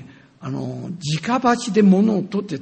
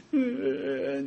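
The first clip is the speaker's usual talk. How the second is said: imitated wife's sob; 8 semitones higher, 7 dB quieter, much slower than usual. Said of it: "声を上げて泣いてんですよ".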